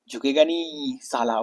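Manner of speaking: slow, lightly voiced Pushpa catchphrase; a hint of the swaggering hero; Pushpa dialogue. Teacher quoting Pushpa to students, lightly voiced. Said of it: "बार-बार क्या बोलता है".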